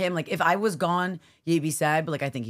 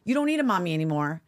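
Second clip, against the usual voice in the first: retold snap; 4 semitones higher, faster than usual. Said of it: "I saw red. I snapped".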